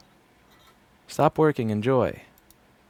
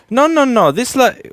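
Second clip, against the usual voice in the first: high loud scolding grandma; 11 dB louder than usual. Retold or imitated. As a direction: cut him off like the stern grandma. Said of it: "And she would say".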